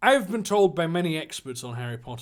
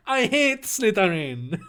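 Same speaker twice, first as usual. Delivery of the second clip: higher Chinese caricature, breaking into laughter; mock Chinese accent, Slytherin with its L and R in place; 5 semitones higher than usual. Draco insulting the Slytherin house, mock Chinese accent. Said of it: "he's Chinese now".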